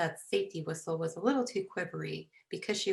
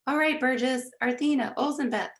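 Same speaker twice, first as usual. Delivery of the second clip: high, loud call to another room; yelling back; 7 semitones higher, 6 dB louder than usual. A narrator's reading. Mom yelling back to the family, high and loud. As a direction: call each name out loudly. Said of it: "Mom yelled back from Wilbury's room".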